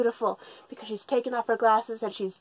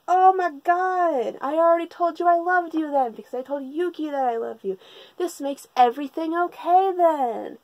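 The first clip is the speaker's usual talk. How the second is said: mock lovestruck gushing; 6 semitones higher than usual. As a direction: imitate an overjoyed girl, pitched way up. Retold overjoyed lovestruck girl.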